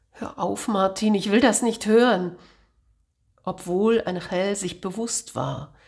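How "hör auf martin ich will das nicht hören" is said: pleading outburst. Acted. Angel covers ears, pleads.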